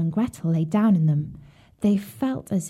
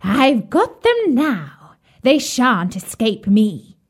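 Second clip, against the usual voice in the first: jeering; 4 semitones higher, slower than usual. Acted. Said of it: "she laughed wickedly and said jeeringly".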